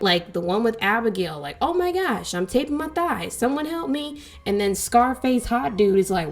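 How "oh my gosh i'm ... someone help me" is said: mock plea. Mimics Abigail pleading for help.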